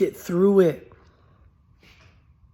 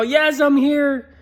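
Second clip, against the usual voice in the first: pleading ghost; 5 semitones higher than usual. Retold or imitated. Ghost comforting his grieving wife, high and begging. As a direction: beg her not to cry, as a ghost. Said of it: "like the movie Ghost".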